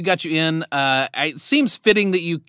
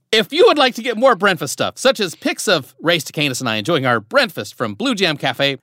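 promo read; 3 semitones higher than usual. Acted. Host reads podcast outro promo.

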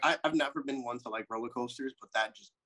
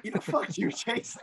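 higher, hammed-up Southern accent; better Southern accent; 9 semitones higher than usual. Cursing a friend in a hammed-up Southern accent. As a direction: ham up the Southern twang. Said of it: "I can do better".

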